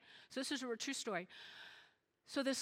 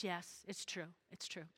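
ashamed admission; 5 semitones lower, 10 dB quieter than usual. Retold or imitated. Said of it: "hung his head".

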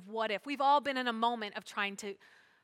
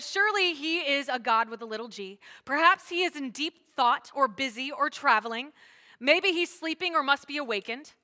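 loud sarcastic taunt; energetic, raised-voice ribbing; mocking; 2 semitones higher, 5 dB louder than usual. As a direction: make fun of their missing god. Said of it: "he's making fun of him".

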